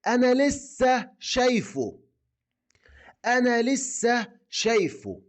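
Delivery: high, slow answer in a different voice; acted reply. Teacher acts the friend replying about seeing his friend, high and drawn out. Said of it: "ممكن تقول له".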